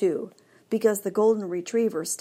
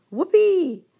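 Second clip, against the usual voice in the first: much higher and louder, bursting with joy; whoopee; 12 semitones higher, 8 dB louder than usual. A narrator's reading. Dog thrilled that Hattie comes to play, joyful yelp. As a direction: yelp it out like a happy puppy.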